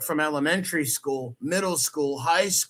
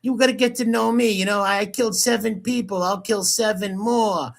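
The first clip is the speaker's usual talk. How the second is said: mock threat; 5 semitones higher than usual. Mockingly quoting the alleged threat.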